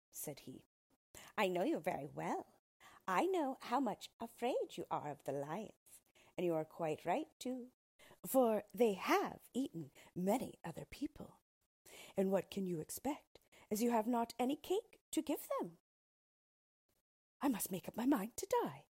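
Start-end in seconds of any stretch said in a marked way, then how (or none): 1.4-15.8 lightly voiced knowing dwarf; storybook dwarf. 17.4-18.9 lightly voiced doomed queen, higher and louder; mild theatrical lament; storybook queen. Queen facing death in story.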